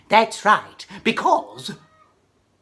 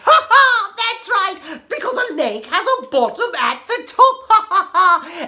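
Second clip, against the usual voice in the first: big laugh; 10 semitones higher, 5 dB louder than usual. Acted. Laughing at riddle answer.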